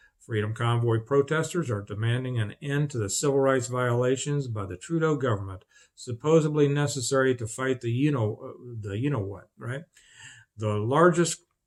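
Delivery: plain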